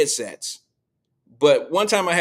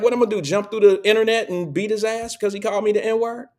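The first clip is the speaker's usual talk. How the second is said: nephew's voice; 7 semitones higher than usual. Retold or imitated.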